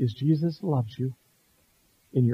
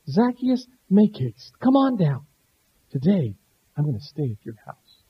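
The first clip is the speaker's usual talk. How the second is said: kind, loving call. Shown as a demonstration. Jesus kindly invites Zacchaeus down, tender and loving. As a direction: call him down lovingly, like a friend. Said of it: "And Jesus said it so kindly, so lovingly".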